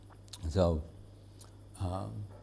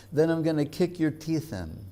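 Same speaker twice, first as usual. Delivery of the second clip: higher, fierce mock threat; mock-fierce, as if ready to fight; intense threat; 6 semitones higher than usual. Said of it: "Vrindavan Das is so intense that he says".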